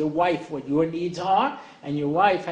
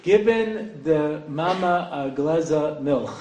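put-on slow, laughing Yiddish-accented English; playful Yiddish lilt, chuckling through it; mock Yiddish accent; 2 semitones lower, slower than usual. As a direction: stretch it out in a hammed-up Yiddish accent. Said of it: "English with a bad accent".

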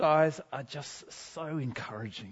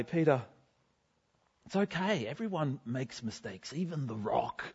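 quietly reassuring; 5 dB quieter than usual. Retold or imitated. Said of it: "I said to him quietly".

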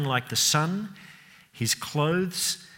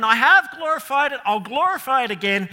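God the Father's booming voice; 10 semitones higher, 7 dB louder than usual. Acted. Preacher voicing the Father shouting from heaven, proud and booming. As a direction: call down from heaven bursting with pride. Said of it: "the Father then blurts out from heaven".

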